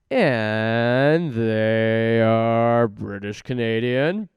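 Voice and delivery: mock British voice. Mock accent bit about Britain.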